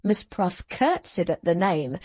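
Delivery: plain reading voice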